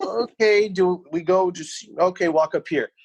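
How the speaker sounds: lightly hammed-up confusion; mock unsure. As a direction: play lost at the empty front desk. Retelling his confusion at entrance.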